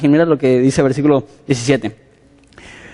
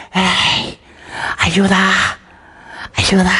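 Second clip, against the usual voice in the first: mock call for help; 3 semitones higher, much slower than usual. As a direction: call through the gate without making noise. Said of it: "y dice". (Pedro pide ayuda en voz baja, fingido)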